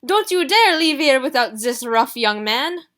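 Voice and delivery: put-on loud, slow French-accented scolding; a fussy French seamstress shouting down the hall; excitable French accent. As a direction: Madame Rossini scolding Gideon, French accent. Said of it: "excitable shouting and a strong French accent".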